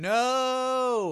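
high, loud squeaky dummy voice; squeaky ventriloquist dummy. Pretend. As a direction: squeak the answer like a puppet. Answering in the squeaky voice.

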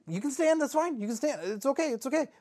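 high, hurried-to-please reassurance; nervous placating. Acted. Host placating a guest who refuses to sit, nervously high.

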